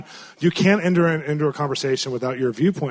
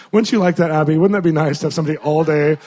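playful teasing; 6 dB louder than usual. Real, not acted. Teasing Abby from pulpit.

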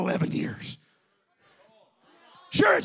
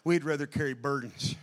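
much softer, lower sermon voice; hushed preaching; 6 semitones lower, 8 dB quieter than usual. Acted. Preacher quietly drawing the congregation in. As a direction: drop the voice low and intimate.

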